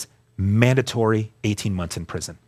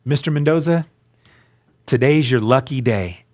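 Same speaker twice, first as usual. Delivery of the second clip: a judge's formal pronouncement, raised, slowing on the verdict. Retold or imitated. Judge telling the defendant his fate, formal and raised. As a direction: announce it from the bench with ceremony. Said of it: "this is how they talk".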